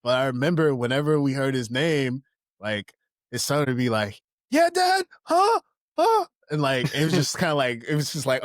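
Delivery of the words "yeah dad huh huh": high yelled "Yeah, Dad? Huh?"; mock yelled answer. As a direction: shout back to a calling dad. Kid answering dad from far.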